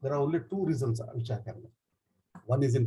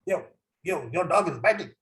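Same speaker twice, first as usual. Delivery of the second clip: higher-pitched call with little added volume; mild mock shout; 3 semitones higher than usual. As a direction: imitate an inspector's shout, held back. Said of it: "Then he shouts".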